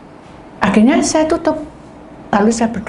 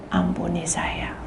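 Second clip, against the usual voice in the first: breathy whispered prayer, slow; soft slow whisper of repentance; 5 semitones lower, 9 dB quieter than usual. Acted. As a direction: whisper it like a humble plea.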